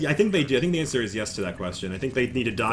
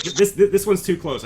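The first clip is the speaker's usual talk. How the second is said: high, loud protest; ma'am's refusal; 7 semitones higher, 7 dB louder than usual. Acted. Ma'am turns down the bunyip trade, insistent. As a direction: insist in a raised character voice.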